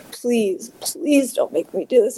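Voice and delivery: plead, lifting the pitch, without shouting; retold pleading. Mother begging her son in a dream, retold pleading.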